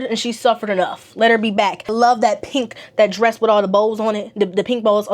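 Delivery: ordinary talk, nothing marked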